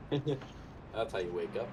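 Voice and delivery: laughing. Real, not acted. Laughing after the crash.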